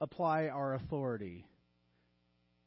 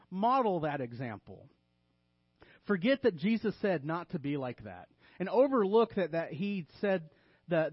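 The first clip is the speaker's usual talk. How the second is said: emphatic mock exhortation; tongue-in-cheek, punching each opening word; sarcastic. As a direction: preach the wrong lesson with mock conviction. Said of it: "I'm being a little sarcastic".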